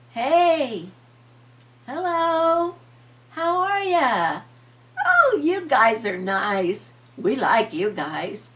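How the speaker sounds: high, slow, loud friendly pumpkin voice; talking pumpkins. Acted. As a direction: greet the kids as a happy pumpkin. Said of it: "they heard something".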